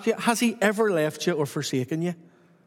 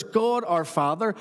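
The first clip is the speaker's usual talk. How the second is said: usual speaking voice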